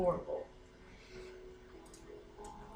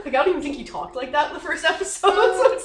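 laughing; 7 semitones higher, 11 dB louder than usual. Real, not acted. Player laughing at GM.

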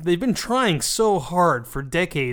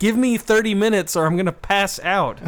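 tag; 6 semitones higher than usual. Acted. Acting exhausted plea to partner.

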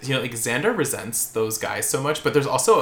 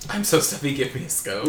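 mock English accent. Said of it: "Where she imitates him".

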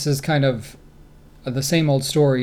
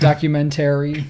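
"Documentary" with Great Lakes vowels, "-tary" stressed; "Documentary" with a flat Midwestern "-tary"; great lakes accent; 3 dB louder than usual. Shown as a demonstration. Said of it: "Great Lakes accent like my family and me".

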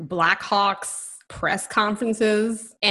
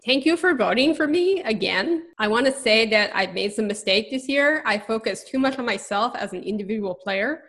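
put-on light, approximate French Canadian accent; loosely put-on French Canadian accent. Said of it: "saying this in a French Canadian accent".

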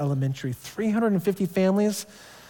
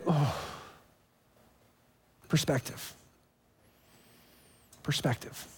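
much softer, fading to a breathy whisper; hushed realization; 3 semitones lower, 11 dB quieter than usual. Retold or imitated. Believer humbled before God, a fading hushed whisper. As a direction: let the word sink in quietly.

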